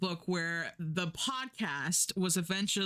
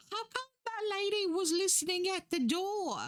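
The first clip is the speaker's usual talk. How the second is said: lightly voiced kid, higher pitch; curious boy asking mom, pitched up; child's voice; 12 semitones higher than usual. Son asking his mother about a lady, higher child's voice. Son's question voiced in a retelling.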